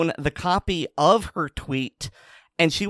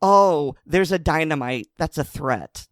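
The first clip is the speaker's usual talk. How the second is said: mock alarm. Mocking the administrators' overreaction.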